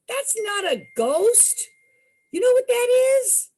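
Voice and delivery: amused local teasing; teasing storekeeper. Retold or imitated.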